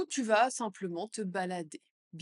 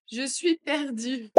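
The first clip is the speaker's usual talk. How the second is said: louder and slower, a touch higher; 4 semitones higher, 5 dB louder, slower than usual. Shown as a demonstration. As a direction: say it out loud, slowly. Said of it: "phrase modelled twice". (plus fort et lent)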